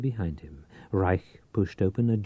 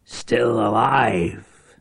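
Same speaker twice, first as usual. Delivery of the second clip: exultant cry; 2 semitones higher, 4 dB louder, much slower than usual. Acted. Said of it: "Reich cried exultantly".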